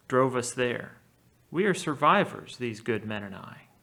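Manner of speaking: measured epic reading with a touch of drama; reading an epic aloud. A narrator's reading. Teacher reading Odysseus's lie to the Cyclops aloud, in epic style. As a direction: read it like the Odyssey text. Reads Homer's text aloud.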